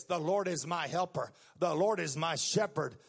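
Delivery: "I shall not want" slowed right down; earnest scripture recital. Shown as a demonstration. Preacher urging young people to quote the psalm. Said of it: "You need to get this".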